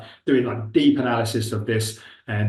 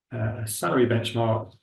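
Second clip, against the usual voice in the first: slow dictation; 2 semitones lower, much slower than usual. Real, not acted. Dictating a query to chatbot.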